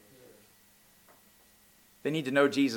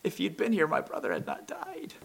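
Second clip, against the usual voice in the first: softer, pleading; humble Mary; 5 semitones higher, 5 dB quieter than usual. Retold or imitated. Mary kneeling at Jesus's feet, softly pleading. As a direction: say it quietly, bowed down. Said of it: "She says".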